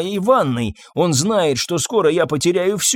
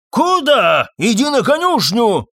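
much higher, louder barked order; angry shout; 8 semitones higher, 4 dB louder than usual. Acted. Master to groom, angry shouted order. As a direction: drive him out to the stable. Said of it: "крикнул Фабьен".

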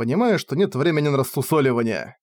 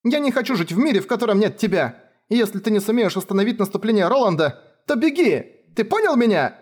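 much higher crying plea; tearful girl pleading; 8 semitones higher than usual. Acted. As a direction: beg him through sobs. Кефар плачет, умоляет. (Кефар рыдая умоляет Райнера)

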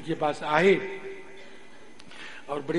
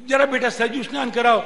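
lightly acted, raised coaxing request; guru asking a chore; 6 semitones higher, 7 dB louder than usual. Guru asking his disciple for help with bathing, lightly acted request. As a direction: call the pupil to a task.

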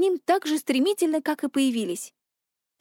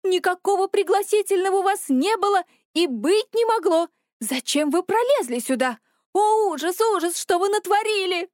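high-pitched indignant outburst; agitated, appalled protest, pitched up; outraged; 6 semitones higher than usual. A narrator's reading. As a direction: scold the intruder in horrified dismay. Little man yelling at intruder.

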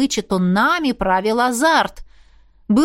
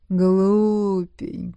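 tender demon whisper; 3 semitones lower, much slower than usual. A narrator's reading. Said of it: "почти нежно прошептала принцесса".

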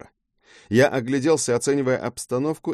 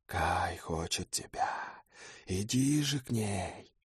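slow, much softer beckoning murmur; whispering call; 11 dB quieter, slower than usual. Acted. Harpy Kai calling the hero to come, softly beckoning. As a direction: draw him in, slow and soft. Kai's whisper continues luring.

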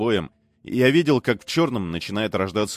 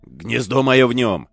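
loud slow squeal; shrieking demon; 3 semitones higher, 5 dB louder, slower than usual. Acted. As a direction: squeal it out desperately. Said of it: "взвизгнул бес". (визг беса)

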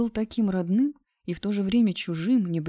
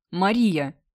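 sharp bark, louder; barked name; 6 dB louder than usual. A narrator's reading. Girl correcting her ex on the phone, a loud bark. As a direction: snap her full name at him. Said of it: "рявкнула я".

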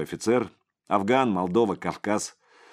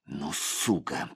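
inner thought; 4 semitones lower, 6 dB quieter, much slower than usual. A narrator's reading. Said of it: "подумал Крепленый".

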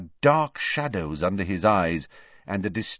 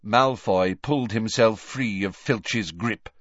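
ordinary delivery, nothing marked

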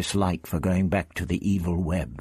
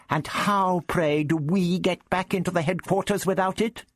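high-pitched haughty challenge; icy disdain; 13 semitones higher than usual. A narrator's reading. The stiffened Doctor challenges Prapillus over the Zarbi, icily. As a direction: demand an answer with affronted sarcasm. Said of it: "he sniffed icily".

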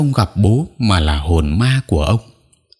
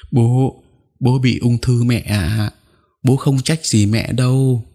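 higher, choked sobbing words; 4 semitones higher, slower than usual. Acted. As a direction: hold back sobs while comforting. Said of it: "Tôi nghẹn ngào". (nghẹn ngào an ủi mẹ)

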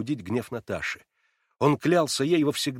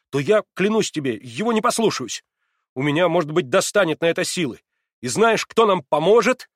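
much higher and louder, passionate; fervent cry; 6 semitones higher, 7 dB louder than usual. A narrator's reading. Alyosha swearing to Natasha, fervent. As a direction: swear it with all your heart.

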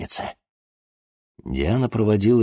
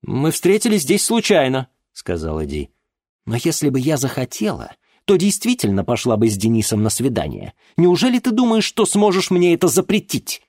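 high, loud challenging retort; defiant daughter; 8 semitones higher, 4 dB louder than usual. Acted. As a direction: defy him openly. Daughter defies father.

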